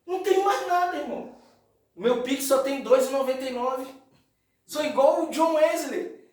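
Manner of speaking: high, emphatic sermon voice; impassioned preaching. Acted. Preaches at full force. (pregação fervorosa, voz elevada)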